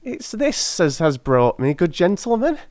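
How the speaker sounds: put-on high, pleading old crone voice; a poor old charwoman begging humbly; old woman. Old woman begs the gentlemen for the ring, high and humble.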